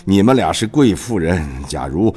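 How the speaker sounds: put-on measured stage recitation of an old king; King Lear monologue. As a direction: declaim it like a wronged old king. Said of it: "下面我给大家朗诵一段独白吧".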